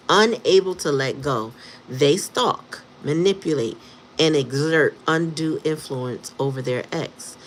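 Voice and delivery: formal read-out voice; reading a definition. Acted. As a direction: read it like a dictionary entry. Reads a definition aloud.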